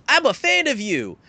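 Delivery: high, loud, hammed-up admiration; mock gushing fan. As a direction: gush like a cartoon admirer. Acted superhero trope line.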